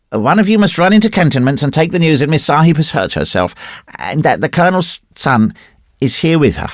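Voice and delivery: put-on high-pitched child giving orders; commanding little boy. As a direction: play the colonel's small son taking charge. Boy orders the men about.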